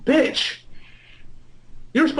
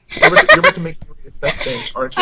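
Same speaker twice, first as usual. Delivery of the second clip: laughing protest; 8 semitones higher, 6 dB louder, much faster than usual. Real, not acted. Horrified at sex scene.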